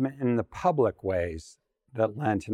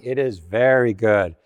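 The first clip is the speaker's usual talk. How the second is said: relaxed, pleased, leaning back; contented sigh of praise; 3 semitones lower, 4 dB louder than usual. Acted. God with her feet up, admiring creation, contented. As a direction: savour each word like a job well done. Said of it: "as she puts her feet up".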